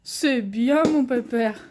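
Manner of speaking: slow, loud praise for the dog; talking to a dog. Real, not acted. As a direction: praise him warmly, stretched out. Praising dog after fetch.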